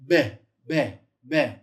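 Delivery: "be" repeated, punched loud; sounding out B. Shown as a demonstration. Teacher models the B sound for the class. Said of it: "If you've got the dot in the bet".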